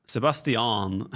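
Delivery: "Sebastian" slow, every syllable, se-bas-ti-an; drawn-out "Sebastian" ending on a clear "an"; careful se-bas-ti-an. Retold or imitated. Caster tries the foreign se-bas-ti-an slowly. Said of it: "That feels so weird though".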